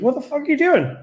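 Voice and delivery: high, incredulous mock yell; retold outraged demand; imitated angry boss. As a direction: bark it like a fed-up organizer. Angry organizer confronts him offstage.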